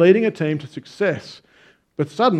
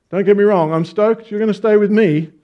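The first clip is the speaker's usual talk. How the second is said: stoked; 4 semitones higher, 5 dB louder than usual. Acted. Captain voiced in a parable.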